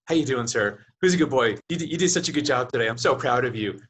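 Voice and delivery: mock cooing salesman, lightly voiced; pet talk. Car salesman cooing at a customer like a pet, lightly voiced. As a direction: praise the buyer like a good dog. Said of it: "the person came up to me and says".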